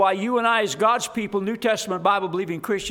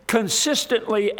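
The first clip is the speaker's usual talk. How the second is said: "consistently" said with deliberate emphasis; stress on "consistently". Shown as a demonstration. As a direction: lean on the word "consistently". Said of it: "emphasis on the word consistently".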